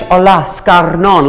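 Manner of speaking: put-on slow, lightly Spanish-accented greeting; mock Spanish accent. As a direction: say it slowly as if it were Spanish. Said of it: "That could be Spanish".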